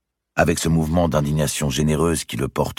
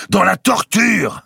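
high, loud, drawn-out cry; defiant retort; 7 dB louder, slower than usual. A narrator's reading. Grand master answers the heresy charge, defiant retort. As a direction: throw it back, stretching the words.

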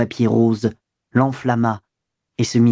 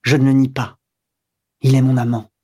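mildly bold, plain admission; defiant. A narrator's reading. Wife admitting her lover to the commissioner, boldly. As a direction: own it with understated defiance. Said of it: "Elle prononça crânement".

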